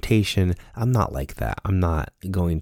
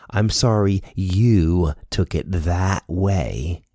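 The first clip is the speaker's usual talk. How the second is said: slow, dismissive fake apology; non-apology; much slower than usual. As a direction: drag out a hollow sorry. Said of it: "is to do a non-apology".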